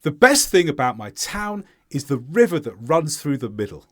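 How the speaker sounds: falling statement, clear weight on "town" and "river"; stressed content words. Shown as a demonstration. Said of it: "Here's a possible answer".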